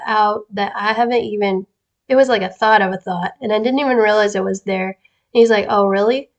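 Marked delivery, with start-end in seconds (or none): 5.7-6.3 playful mock disbelief, lifting in pitch on the challenge; lightly amused, joking challenge. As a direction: tease them with an imitated "oh, is that so". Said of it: "He turns it into a joke sometimes".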